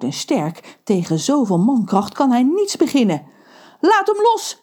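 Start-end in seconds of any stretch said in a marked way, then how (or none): 3.8-4.6 high urgent yell; shouting. Acted. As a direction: shout to save your friend. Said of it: "schreeuwt Ron". (Ron schreeuwt geschrokken)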